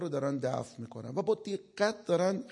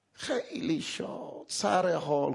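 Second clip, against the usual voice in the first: mock gleeful; much slower than usual.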